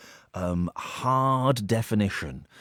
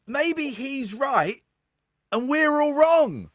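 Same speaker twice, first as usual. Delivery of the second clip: mock spooky voice; much slower than usual. Spooky conspiracy voice.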